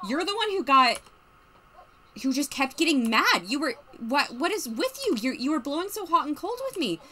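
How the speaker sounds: put-on arguing girlfriend. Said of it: "Yeah, she was like".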